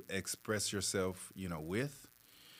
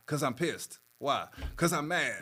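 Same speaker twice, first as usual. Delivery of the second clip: higher, louder, mock fed-up answer; mock exasperated reply; 5 semitones higher, 3 dB louder than usual. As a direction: toss it back like a sulky grumbler. Acted dialogue, angry person.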